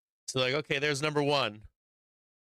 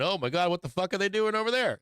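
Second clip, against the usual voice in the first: mock shock; 8 semitones higher than usual. Mock trader panic quote.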